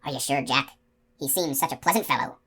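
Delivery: soft, deflated; drooping voice. Acted. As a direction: let the voice sag. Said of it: "Coley's voice drooped".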